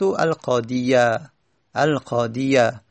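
القاضیه said with a light, long -iyaa ending; the correct open ending on القاضیه; fatha ending. Shown as a demonstration. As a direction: let القاضیه end open, as qaadiyaa. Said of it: "چون که فتحه".

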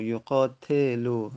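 slow model word. Shown as a demonstration. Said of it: "teacher modelling verb forms".

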